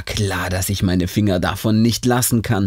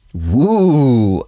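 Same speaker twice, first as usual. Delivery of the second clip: excited whoop; 4 dB louder than usual. A narrator's reading. Excited about TV.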